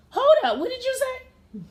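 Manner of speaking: woman losing it at the stranger, indignant; indignant hold up. Retold or imitated. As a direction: rise up in disbelief. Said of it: "I was like".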